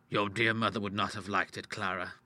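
soft, saddened reproach; gentle rebuke. Acted. Father appealing to her mother's memory, soft gentle rebuke. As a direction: reprove her quietly and sadly. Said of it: "gentleness of his rebuke".

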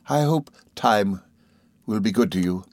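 understated kindly mother; slow hopeful wish. Acted. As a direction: wish him well, slowly. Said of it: "she returned".

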